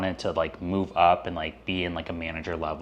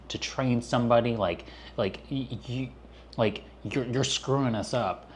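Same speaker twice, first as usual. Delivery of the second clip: raised, exasperated complaining; annoyed owner; 4 semitones higher than usual. Retold or imitated. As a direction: whine it like an annoyed boss. Angry owner retold after quitting.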